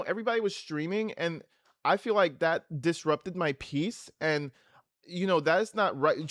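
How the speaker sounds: mock self-pitying LA young person; imitating a dramatic LA girl complaining; mock LA complainer. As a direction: streamer mocking LA youth complaining about drama. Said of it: "Everybody in L A talks like that".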